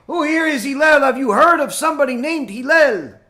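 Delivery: loud, high taunting shout; mock screaming. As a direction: yell it out to provoke him. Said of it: "He's screaming".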